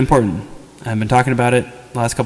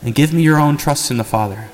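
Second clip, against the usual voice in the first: heartfelt prayer. Shown as a demonstration. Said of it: "We'll take a little time to pray".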